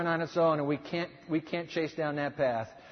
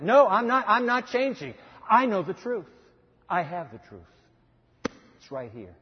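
firm stand; 3 semitones higher, 4 dB louder than usual. Pretend. Voicing someone holding their ground.

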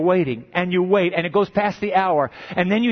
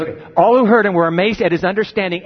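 louder, faster repeat pressing the point; emphatic repeat; 6 dB louder, faster than usual. Shown as a demonstration. Preacher to students, louder pressing repeat. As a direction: drive home the line for the class. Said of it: "did you get that?".

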